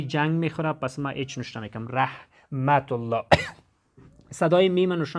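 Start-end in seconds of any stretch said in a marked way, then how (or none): 1.9-3.2 رحمت الله slowly broken into syllables. Shown as a demonstration. (رحمت الله را آهسته و هجا به هجا)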